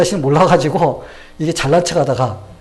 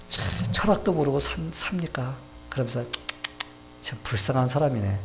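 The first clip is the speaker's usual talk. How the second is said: mocking pity; 7 dB quieter than usual. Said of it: "이 농담이 짙어지기 시작했습니다".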